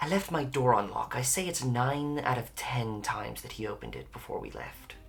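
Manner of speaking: hushed, close-up, leaned-in half-whisper. Voicing a character who leans in toward the group: half-whispering as Varys. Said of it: "lean in towards you guys and whisper".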